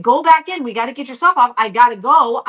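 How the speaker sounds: urgent, pushy orders; hurried mom. Retold or imitated. Mom rushing son to get his gear off, urgent. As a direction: hustle the kid along, punching the commands.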